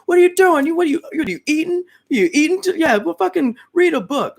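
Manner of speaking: high-pitched shouted rant, scolding; mock yelling. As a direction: yell it like a hype motivator berating you. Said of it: "niggas yelling at you like".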